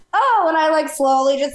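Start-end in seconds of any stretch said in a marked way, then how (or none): 0.1-0.5 retold awkward realisation. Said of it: "And I'm just like".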